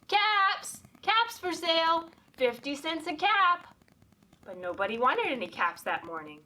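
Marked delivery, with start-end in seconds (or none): 0.1-3.7 calling out wares. A narrator's reading. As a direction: sing out like a peddler selling caps.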